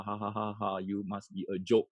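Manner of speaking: mock laughing parent. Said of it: "We laugh, lah".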